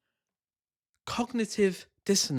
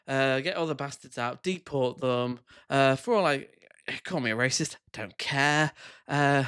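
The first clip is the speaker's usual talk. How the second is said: mock apology. Parody of guest apologising.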